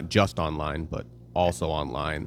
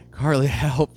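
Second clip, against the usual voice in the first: mock plea, laughing through it, louder; laughing call for help; 8 semitones higher, 6 dB louder, slower than usual. Dad laughing as he calls his wife for help. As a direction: call out for help while cracking up. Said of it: "And I'm just like".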